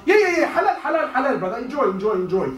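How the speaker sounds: laughing, high-pitched mock approval of the crowd; mock carefree. Preacher mocking careless fasters with laughing high approval. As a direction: toss it off like a careless partygoer.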